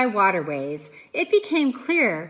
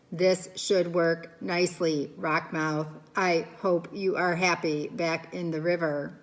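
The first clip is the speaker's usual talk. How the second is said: calm robot voice; 5 semitones lower, 4 dB quieter than usual. Acted. Robot Roz voice held.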